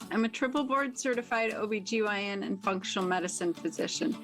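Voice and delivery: brisk, upbeat host intro over music; podcast intro read. Acted. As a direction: sell the show like a radio promo.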